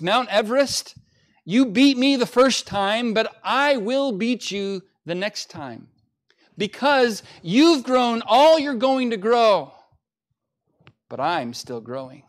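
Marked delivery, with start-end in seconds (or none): 0.0-9.7 mock, loud, pitched-up grand public proclamation. Retelling a climber speaking on stage to a mountain picture: imitating a loud voice. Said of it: "he said in a loud voice".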